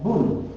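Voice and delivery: "bun" held long, falling at the end; syllable demonstration. Shown as a demonstration. Teacher adds the Dhamma vowel, slowly sounding it out. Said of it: "Dhamma thing up there".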